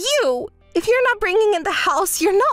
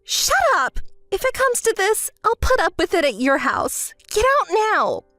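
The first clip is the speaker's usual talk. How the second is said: higher, furious outburst; angry shout; 4 semitones higher than usual. Acted. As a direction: throw her out in anger. Shouting during quarrel.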